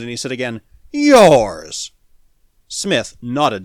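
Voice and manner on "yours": loud, drawn-out falling exclamation; incredulous. A narrator's reading. Ex-patrolman staring at Smith, incredulous exclamation. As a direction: blurt it out in loud disbelief. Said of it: "The incredulity triumphed for a moment".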